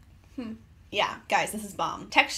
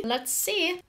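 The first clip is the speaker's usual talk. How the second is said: excited; 8 semitones higher, slower than usual. Real, not acted. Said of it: "I'm excited".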